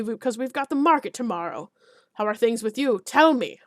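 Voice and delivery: hearty alderman. Acted. Alderman hearty and loud with Geralt.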